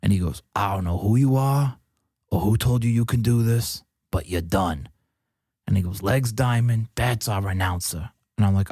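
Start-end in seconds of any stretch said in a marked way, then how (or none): 0.5-4.9 imitated Michigan accent, falling to a verdict. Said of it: "a very classic Michigan accent". 6.0-8.1 lightly imitated Michigan accent. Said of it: "a very classic Michigan accent".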